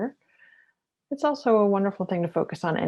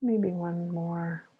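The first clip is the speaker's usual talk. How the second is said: guided meditation. Acted. Mindfulness teacher pacing listeners through shoulder rolls with the breath, guided meditation. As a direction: lead each breath and movement unhurriedly.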